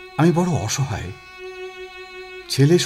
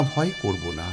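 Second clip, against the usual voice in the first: lower, softer recited refrain; subdued echo of the verse; fading verse echo; 6 semitones lower, 6 dB quieter than usual. Acted. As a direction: let the refrain sink away. Recites schoolbook verse, falling echo.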